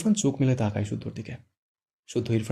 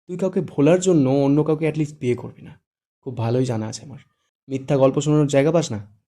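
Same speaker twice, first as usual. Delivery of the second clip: angry; 5 dB louder than usual. Acted. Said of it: "রেগে বলল".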